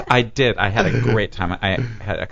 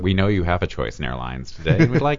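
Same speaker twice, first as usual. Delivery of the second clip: controlled pilot voice. Retold or imitated. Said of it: "it's that controlled".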